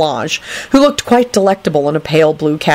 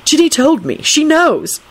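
high, earnest reassurance; higher, consoling tone; sympathetic; 9 semitones higher than usual. A narrator's reading. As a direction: reassure a sister in a raised, insistent voice. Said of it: "in a sympathetic tone".

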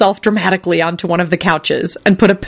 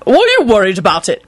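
barked; 3 semitones higher than usual. Acted. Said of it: "Quentin barked out".

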